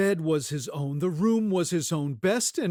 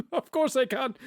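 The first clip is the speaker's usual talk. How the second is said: laughing repeat; 7 semitones higher than usual. Acted.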